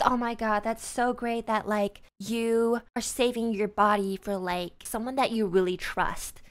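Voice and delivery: mock her with syrupy fake pity. Mocking the stripper's pitying voice.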